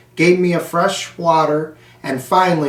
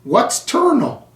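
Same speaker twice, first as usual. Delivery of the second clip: puzzled; 8 semitones higher than usual. Acted. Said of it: "said Miss Brisbane".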